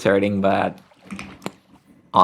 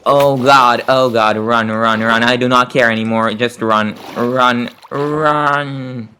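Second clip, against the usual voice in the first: being chased; 3 semitones higher, slower than usual. Real, not acted. Fleeing a mob in game.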